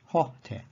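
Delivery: "ho" carries the accent, "te" leans back on it. Shown as a demonstration. Teacher repeats the enclitic example, accent on "ho". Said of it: "The te gives an accent to the ho".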